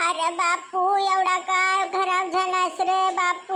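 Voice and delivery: put-on old mother voice. Grandmother fussing over her son. (म्हाताऱ्या आईचा खालचा, हळू आवाज)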